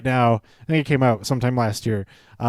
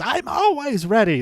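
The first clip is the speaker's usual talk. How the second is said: higher, cocky boast; a bragging wrestler's comeback; mock boast; 9 semitones higher than usual. Heath answers Daniel Bryan with a high, cocky brag. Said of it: "He says".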